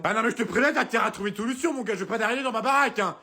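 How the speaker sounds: a mum laying down the law quickly; mother character. Acted.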